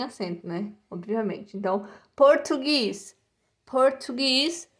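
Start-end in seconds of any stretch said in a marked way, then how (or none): 2.1-4.7 "português" said as English Portuguese, no E sound; English pronunciation. Shown as a demonstration. Teacher modelling the English subject name for students, English pronunciation. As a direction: stretch "português" out, ending on an S sound. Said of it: "A gente não pronuncia o E".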